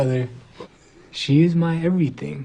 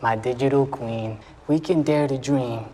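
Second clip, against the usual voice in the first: poem reading; 7 semitones lower than usual. Acted. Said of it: "I'd like to read a poem".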